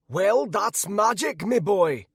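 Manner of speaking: put-on high, slow old wizard voice; old mage. A narrator's reading. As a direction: explain it as a frowning old mage. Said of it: "he said with a frown".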